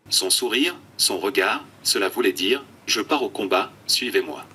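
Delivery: computer text-to-speech voice; flat synthetic speech from an eye-tracking tablet. Real, not acted. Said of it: "une voix de synthèse". (voix de synthèse robotique)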